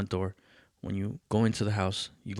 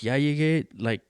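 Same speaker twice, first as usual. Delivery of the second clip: lightly mimicked sassy reply; same tone as dad; 3 semitones higher, faster than usual. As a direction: answer back in the tone he's being given. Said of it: "the same tone".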